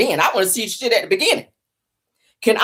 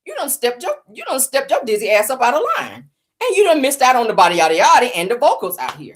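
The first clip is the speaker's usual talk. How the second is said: the Lord scolding; 6 semitones higher than usual. Retold or imitated. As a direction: play God chewing her out, pitched up. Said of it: "The Lord was saying".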